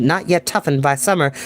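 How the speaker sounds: plain reading voice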